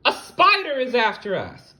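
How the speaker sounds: high, loud frantic warning; panicked shout. Acted. Lucy the ladybug warning Hermie, panicked high shout. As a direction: yell it as you flee. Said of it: "Lucy shouted".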